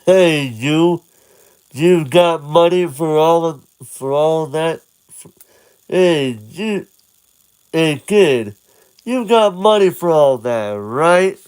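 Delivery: lightly voiced gruff vendor; vendor demanding. Vendors confront Link, mild demanding voice. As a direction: lean on the kid. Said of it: "food vendors surround this boy".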